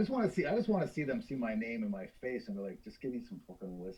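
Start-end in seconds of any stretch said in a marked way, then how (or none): 2.8-4.0 put-on Northern Irish accent. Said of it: "I can do a Northern Irish accent".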